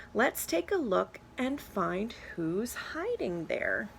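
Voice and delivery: lively picture-book read-aloud; reading to children. Acted. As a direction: read it to a class of kids. Reads picture book to class.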